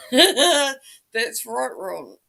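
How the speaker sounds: laughing through the words; amused, laughing reply to the chat. Real, not acted. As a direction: laugh out the agreement. Laughing at chat's joke.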